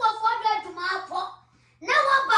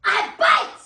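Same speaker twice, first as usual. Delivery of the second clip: raised-voice warning; angry threat; 3 semitones higher than usual. Acted. Husband threatening wife off, angry threat. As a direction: threaten like a cornered animal.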